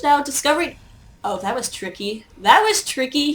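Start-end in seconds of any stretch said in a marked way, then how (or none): 1.2-2.3 softer, murmured to himself; a soft aside, half under the breath; quiet first take. Real, not acted. Caster reacts, then repeats. 2.4-3.3 higher and louder, impressed; emphatic repeat. Real, not acted.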